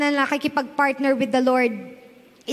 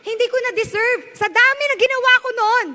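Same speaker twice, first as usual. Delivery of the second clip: retold tearful prayer; 7 semitones higher than usual. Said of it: "I was crying".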